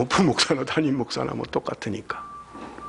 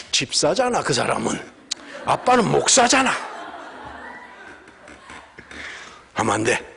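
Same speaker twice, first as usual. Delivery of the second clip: laughing reply. Retold or imitated. Father answers child, laughing.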